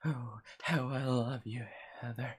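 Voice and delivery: quiet, lingering creepy stalker; creepy guy voice. Acted. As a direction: breathe it like a lovesick creep. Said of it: "That was a pretty good creepy guy voice".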